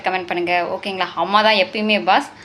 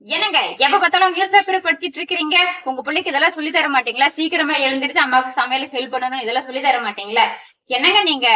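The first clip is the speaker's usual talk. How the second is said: nagging wife. Acted. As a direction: nag a useless husband. Wife complains to husband. (கணவனிடம் எரிச்சலான புலம்பல்)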